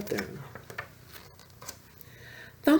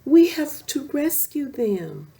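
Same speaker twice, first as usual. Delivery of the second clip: urgent; 7 semitones higher than usual. Acted. Urgent rescue.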